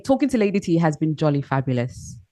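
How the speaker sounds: understated posh English; posh English accent. Shown as a demonstration. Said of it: "Let's do the posh".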